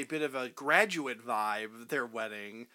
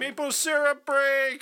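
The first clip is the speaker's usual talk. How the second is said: excited announcement; 10 semitones higher than usual. Pretend. Mock Canadian announcement.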